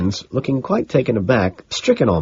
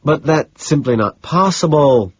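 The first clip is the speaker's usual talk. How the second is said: higher, slow dismissive reply; brushing off; 7 semitones higher, 4 dB louder, slower than usual. A narrator's reading. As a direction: wave the claim away, drawing it out. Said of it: "he says, brushing me off".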